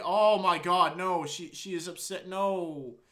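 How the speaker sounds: high, loud panicked aside; alarmed outburst. Real, not acted. Reacting to Yuri crying, a high, loud panicked aside. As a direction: blurt it out in alarm.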